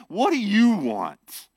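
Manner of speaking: slow, pointed condescending question. Acted. Disciples to the Samaritan woman, condescending. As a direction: imitate a disdainful challenge. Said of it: "said it in a very condescending way".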